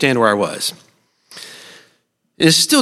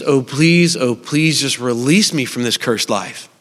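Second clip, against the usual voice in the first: desperate prayer; slower than usual. Retold or imitated. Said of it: "crying out to God and going".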